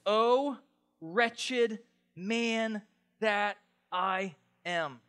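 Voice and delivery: very slow, word-by-word lament; cry of desperation. Acted. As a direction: draw out every word in heavy despair. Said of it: "That's called a cry of desperation".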